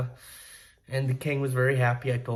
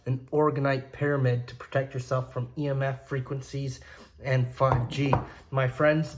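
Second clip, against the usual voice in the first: ad read. Acted. Vlogger pitching pyramids to his viewers, upbeat ad read. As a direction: push the product like a hype ad.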